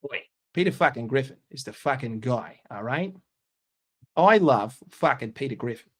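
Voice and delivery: put-on slipping into an Australian accent; rough go at an Australian accent; Aussie-sounding impression voice. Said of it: "that was Australian".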